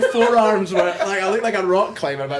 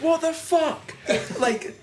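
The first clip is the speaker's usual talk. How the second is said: much higher, laughing dad's outburst; giggly imitation of a shocked father; laughing mock disbelief; 10 semitones higher, slower than usual. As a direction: mimic the dad's amazement while cracking up. Dad shocked at rock pile.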